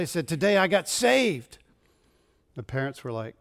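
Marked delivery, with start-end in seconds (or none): 0.3-1.6 put-on excited child. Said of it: "he's all excited".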